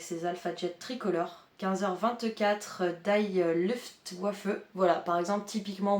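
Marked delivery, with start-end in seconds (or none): 3.0-4.5 bad German accent. Shown as a demonstration. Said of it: "mon accent allemand est pourri".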